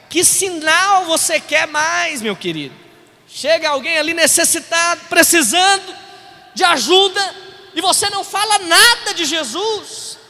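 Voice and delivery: indignant preaching. Real, not acted. Pastor faulting a brother who didn't pray, indignant preaching. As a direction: hammer home the missed chance.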